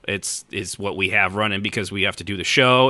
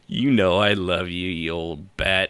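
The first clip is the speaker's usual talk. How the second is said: slow fond tease; 3 semitones lower, slower than usual. Real, not acted. Affectionate teasing insult, slow.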